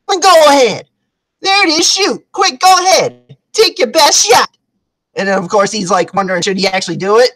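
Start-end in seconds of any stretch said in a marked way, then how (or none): 0.1-4.5 high, punchy acted goading; defiant dare. Woman dares man to shoot her toe, defiant dare. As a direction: egg them on in a raised voice.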